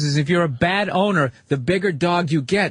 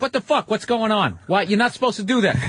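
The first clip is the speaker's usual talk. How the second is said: mock dog reaction; 4 semitones higher than usual. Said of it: "The dog's like".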